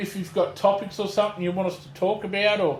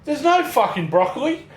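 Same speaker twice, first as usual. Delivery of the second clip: put-on exasperated old lady; 7 semitones higher, 4 dB louder than usual. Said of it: "She's like".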